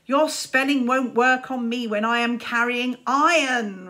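put-on a boy roaring at his rival; roared. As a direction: roar it as you charge. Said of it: "roared Czar".

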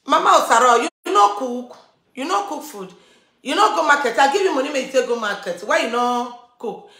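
imitating an indignant husband, pitch lifted; acted-out domestic telling-off; retold scolding. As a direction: demand an explanation as the husband. Father confronts wife over food.

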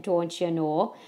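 lightly put-on Great Lakes accent; a hint of mock Great Lakes twang. Teacher teasing Great Lakes speech, light Great Lakes accent. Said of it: "people from the Great Lakes area".

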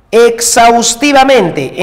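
exhaustivamente drawn out syllable by syllable; slow dictation. Shown as a demonstration. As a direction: stretch out exhaustivamente for the class. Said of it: "en la palabra exhaustivamente".

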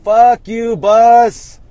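sudden loud road-rage swearing; cursing at a bus. Real, not acted. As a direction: curse out the vehicle blocking you.

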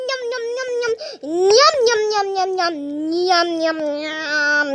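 put-on a child's delighted chant; gleeful yums. Kid savoring treats on camera.

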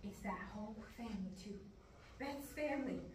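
hushed, suspicious confiding; whispering. Acted. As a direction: say it low under your breath. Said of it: "Will you please stop whispering?".

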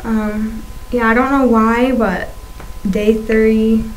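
talking around a swollen tongue; lisping with a fresh tongue piercing; tongue piercing speech. Real, not acted. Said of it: "having a hard time talking today".

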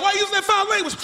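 put-on teacher scolding a kid for cursing. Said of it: "My teacher like".

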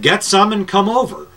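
high mock Scottish voice; attempted Scottish accent. Scotsman inviting the broadcaster to Nepal, attempted Scottish accent. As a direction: imitate a Scotsman lightly, pitched well up. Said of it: "very proper Scottish accent".

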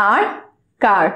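"আর" said as plain ar before "কার"; teacher showing parents to say "আর" not our; are car. Shown as a demonstration. "আর কার" said clearly, ar car. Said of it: "আর বলবো".

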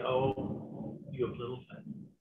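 softly spoken gentle rebuke; quiet address. Acted. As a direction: drop the volume, lightly acting a calm reproach. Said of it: "addresses them quietly".

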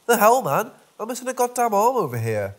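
loud, high, furious protest; angry outburst. Acted. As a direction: yell it in disbelief. Angry Tom missing his arm.

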